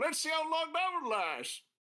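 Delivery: slightly hurt, wounded tone, very high pitch. Answering a sibling character's remark about pleasing father: a little hurt. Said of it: "you sound a little hurt".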